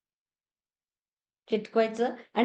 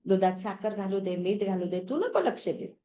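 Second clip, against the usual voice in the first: gently reasoning with an aching knee; mild, loving cajoling; affectionate coaxing; 3 semitones lower than usual. Shown as a demonstration. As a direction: talk to your knee like a dear friend. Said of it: "छान प्रेमाने त्याला वागणूक".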